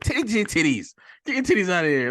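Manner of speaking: high-pitched comic crowd-herding; excited retold order; urgent mock command. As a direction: call it out urgently, imitating a film character. Acting out film character herding crowd.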